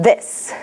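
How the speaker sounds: "This" with tongue between teeth; careful th sound in "This"; th demo. Shown as a demonstration. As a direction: push "This" out with the tongue through the teeth. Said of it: "pull back and go".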